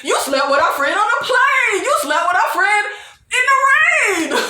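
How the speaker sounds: high sing-song mock voice; mocking the fans. Fans to Shay, high mocking sing-song. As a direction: chant the list like a nursery rhyme. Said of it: "the fans are like".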